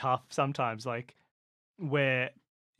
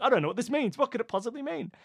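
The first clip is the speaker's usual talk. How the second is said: mock bafflement; 8 semitones higher than usual. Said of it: "You're like".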